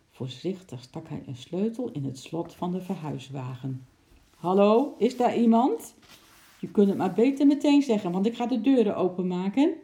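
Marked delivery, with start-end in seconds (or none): 4.4-9.7 loud, raised warning call; calling aloud. A narrator's reading. Mover warns whoever hides in the van, calling aloud. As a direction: call out firmly, higher and louder. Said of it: "riep hij hardop".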